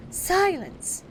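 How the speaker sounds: sharp high "Silence!" shouted over the noise; stern mother silencing the children; cried out. Acted. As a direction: call the room to order, loud and high. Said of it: "cried Wendy".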